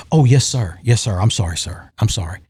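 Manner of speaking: sheepish, deferential apology; meek apology. Retold or imitated. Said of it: "And she's like".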